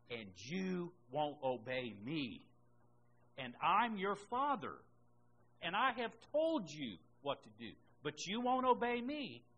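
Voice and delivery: preacher voicing God's mounting exasperation; acted divine rebuke. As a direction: reproach them as a wronged father, with mounting force. Preacher voices God rebuking his people.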